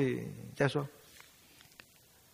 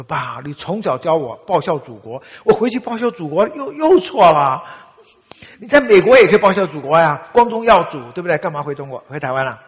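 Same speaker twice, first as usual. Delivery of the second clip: much louder, higher heated pushback; loud retort; 5 semitones higher, 16 dB louder than usual. Retold or imitated. Son arguing with his father about serving the country, loud and heated. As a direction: fire the father's lesson back at him.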